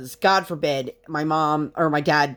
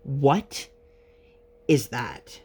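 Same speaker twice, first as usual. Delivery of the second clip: disgusted mom; 3 semitones lower, much slower than usual. Retold or imitated. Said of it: "the look on her face".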